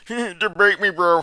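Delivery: high, loud mocking imitation; laughing, high-pitched taunt; laughing mockery. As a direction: jeer it through a laugh. Mocking the clip's challenge, laughing.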